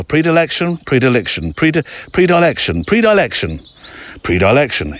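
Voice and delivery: repeating predilection, trying to get it right; stumbling repeat. Real, not acted. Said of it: "It'll come out in the edit".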